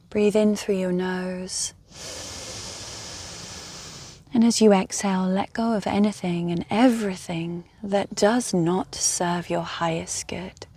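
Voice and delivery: calm guided-meditation voice with long pauses. Real, not acted. Guide inviting listeners to rest and breathe, meditative.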